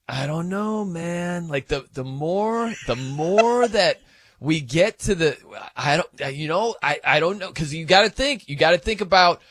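rough, off-the-cuff imitation of a colleague; Patty. Shown as a demonstration. Host trying out his colleague's mannerisms, lightly mimicked voice. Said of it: "here's my Patty impression".

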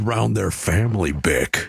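deep dramatic growling voice; Wolf voice. Pretend. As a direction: keep the low wolfish announcer rumble. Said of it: "That didn't call for the Wolf voice".

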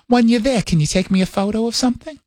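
light New York-accented mom impression; mock motherly questioning, New York accent; mother's New York accent. Mother asks son about his trip, light New York accent. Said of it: "talks like this all the time".

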